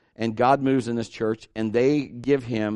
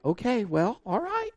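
reluctant wife; 8 semitones higher, 5 dB quieter than usual. Retold or imitated. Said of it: "She would be like".

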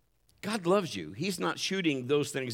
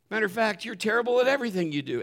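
quick, higher mock accusation; taunting accuser; 4 semitones higher, faster than usual. Preacher voicing the enemy's taunt, mock sneering. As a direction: sneer it like the voice in your head. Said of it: "he'll start just building it".

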